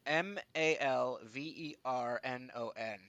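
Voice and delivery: letters spelled out one by one. Shown as a demonstration. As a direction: spell each letter clearly. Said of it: "I'll spell it out for you guys".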